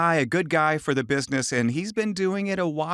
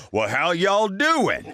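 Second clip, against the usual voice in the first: put-on slow, drawn-out stereotype Southern American accent; a hammed-up cartoon Southerner greeting, slow; 4 semitones higher, 3 dB louder, much slower than usual. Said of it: "be a big stereotype".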